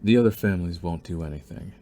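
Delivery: a calm, controlling schemer toying with a captive; scheming villain. Acted. Villain gloating to his captured rival's daughter, calm menace. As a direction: savour every threat, unhurried and possessive.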